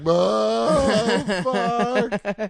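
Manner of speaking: loud, high, drawn-out swear; overwhelmed relief. Retold or imitated. Tripping teen let go by police, loud wailing relief. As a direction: let out a big acted wail of release. Retold relief as friend drives away.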